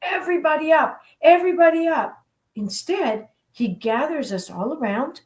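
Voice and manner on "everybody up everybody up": imagined urgent order. Retold or imitated. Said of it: "I'm thinking he's gonna say".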